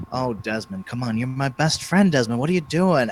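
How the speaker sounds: lightly voiced smooth, smug villain; a hint of a cool, self-satisfied bad guy coaxing his friend; suave braggy villain. Villain Nicodemus coaxing Desmond, lightly voiced and smug. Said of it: "braggy, I'm so cool and suave kind of way".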